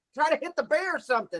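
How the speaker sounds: put-on yelling. Retelling yelling at a video of a bear chasing a man: retelling own yelling. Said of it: "And I'm yelling".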